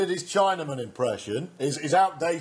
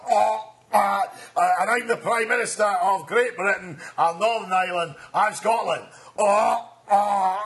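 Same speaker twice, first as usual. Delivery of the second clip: louder, halting politician introducing himself; mock prime minister impression; 4 semitones higher, 4 dB louder than usual. Comedian mimics prime minister meeting a famous singer. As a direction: stumble proudly through the title. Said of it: "He says".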